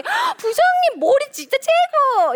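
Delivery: very high, loud, drawn-out gush; hammed-up admiration for the boss; fake flattery. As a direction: oversell an insincere compliment. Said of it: "속으로는 되게 이상하다 생각하는데".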